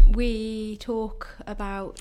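slightly out of breath; breathless after running. Real, not acted. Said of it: "Sorry, I'm quite out of breath".

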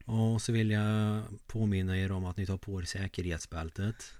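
bus driver in broad Värmland dialect; broad Värmland accent. Acted. Co-host mimics driver's seatbelt reminder, broad Värmland accent. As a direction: lay on the Värmland dialect for an announcement. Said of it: "han pratar på väldigt bred värmländska".

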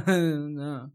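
put-on laugh before the word; imitated giggling. Imitating the actress who couldn't stop laughing, giggly. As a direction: laugh when the line should be serious. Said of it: "you could hear her laughing and stuff".

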